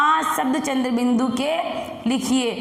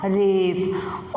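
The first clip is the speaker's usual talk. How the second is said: drawn-out answer; 7 semitones lower, much slower than usual. Shown as a demonstration. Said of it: "इसको क्या कहेंगे बेटा?".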